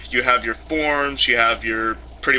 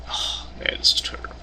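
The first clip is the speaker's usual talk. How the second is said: voiceless, fed-up grumble; muttering; 4 dB quieter than usual. Real, not acted. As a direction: grumble it under your breath. Voiceless complaint.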